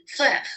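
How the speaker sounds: FLEUVE with the R made at the back of the throat; throaty French R in FLEUVE; French uvular R. Shown as a demonstration. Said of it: "moved to the uvula".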